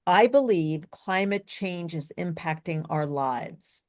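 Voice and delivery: deliberately unexciting, slow and even reading; flat, boring read. Shown as a demonstration. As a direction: keep it down, kind of boring. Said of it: "I'm going to read it relatively flat".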